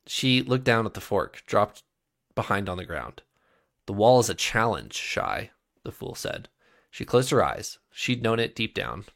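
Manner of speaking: reading a fantasy novel aloud; story narration. A narrator's reading. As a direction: tell it like a storyteller. Reads a novel prologue aloud.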